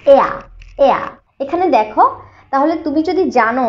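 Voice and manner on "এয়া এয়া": "এয়া" isolated, starting on "eh" and falling into "uh"; diphthong demo. Shown as a demonstration. Teacher showing students the symbol's sound, "এয়া" as a clear "eh-uh" glide. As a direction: say "এয়া" as one gliding "eh-uh". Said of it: "এটা এয়া sound".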